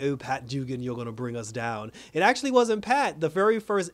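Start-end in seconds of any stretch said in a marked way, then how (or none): 0.0-1.9 lower, softer mocking villain voice; the Shade taunting. The Shade blaming Pat, low and mocking. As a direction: tease him low and smug. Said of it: "the Shade kept saying".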